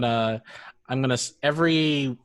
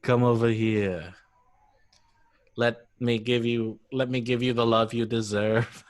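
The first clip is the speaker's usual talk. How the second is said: mock seducer, a little lowered; sexy deep voice; 3 semitones lower than usual. Co-host mimicking the allergy voice, mock seductive. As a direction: croon it as a joking come-on. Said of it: "my sexy, deep voice".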